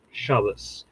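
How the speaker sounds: "Shabbos" stressed on the first syllable, ending in s; Ashkenazi pronunciation. Shown as a demonstration. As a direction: say "Shabbos" the Ashkenazi way, SHAH-bus. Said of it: "on the Ashkenazi end of it".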